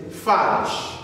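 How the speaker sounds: German "falsch" as a teacher models it. Shown as a demonstration. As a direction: say "falsch" the German way, rhyming with "harsh" minus the r. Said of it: "I want you to pronounce it".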